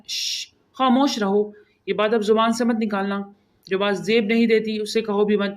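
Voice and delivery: a frowning aunt silencing her niece; frowning hush. Acted. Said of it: "وہ ماتھے پہ بل ڈالے بولی،".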